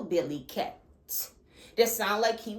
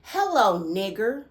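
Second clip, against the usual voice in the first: hillbilly voice greeting; 3 dB louder than usual. Retold or imitated. Hearing a voice in her head, mock hillbilly greeting. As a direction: drawl the greeting like a hostile hillbilly. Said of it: "intrusive thought greeted me as".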